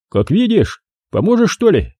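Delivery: put-on pleading young guy. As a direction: ask for help with a hopeful lift. Stuck young driver asks for help.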